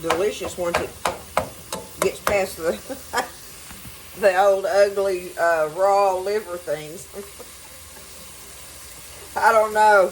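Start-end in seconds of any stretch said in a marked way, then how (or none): 4.2-7.1 laughing. Real, not acted. Laughing at gross raw livers. 9.4-10.1 laughing. Real, not acted. Laughing at gross raw livers.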